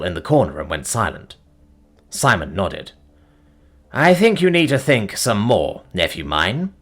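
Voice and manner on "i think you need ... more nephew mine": fatherly advice. Acted. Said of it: "he advised".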